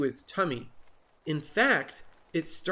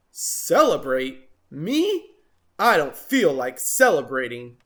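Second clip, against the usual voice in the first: grumpy disbelief; 5 dB louder than usual. Acted. Jim scoffing at Marabou, grumpy. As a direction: scoff at the idea.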